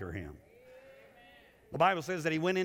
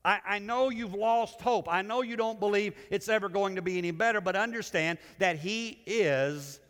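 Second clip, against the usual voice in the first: urgent angel; 5 semitones higher than usual. Acted. Angel voiced comforting the disciples.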